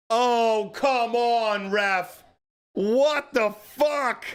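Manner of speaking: pleading with the referee. Real, not acted. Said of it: "that ref just killed the momentum".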